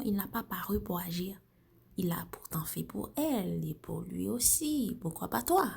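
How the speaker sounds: taunting spoken-word accuser, pitch often swooping up; accusing poem recitation. Acted. Doubter questioning whether you are God's child, accusing spoken word.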